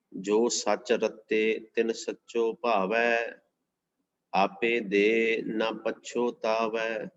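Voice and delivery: drawn-out, measured reading of a holy verse; slow devotional recitation. Acted. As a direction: intone each word of the verse with reverence. Recites scripture verse slowly.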